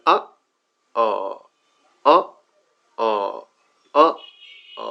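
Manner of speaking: আ alternating short and held long; short-long alternation. Shown as a demonstration. Teacher comparing two sounds, short then long আ. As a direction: switch between a brief আ and a stretched আ. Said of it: "এই long এবং এই short".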